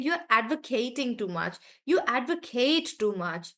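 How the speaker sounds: "advocating" and "advocate" with a full KATE; verb stress. Shown as a demonstration. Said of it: "I'm using it as a verb".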